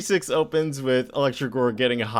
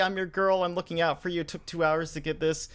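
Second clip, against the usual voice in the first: much higher, whiny and hurt; pleading girlfriend; 8 semitones higher than usual. Retold or imitated. Girlfriend pleading with her dismissive man, high whiny voice. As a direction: beg him like a wounded girlfriend.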